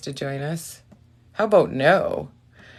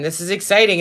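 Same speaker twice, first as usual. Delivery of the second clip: plain; 4 semitones higher, 5 dB louder, faster than usual. Real, not acted. Eager before the reading.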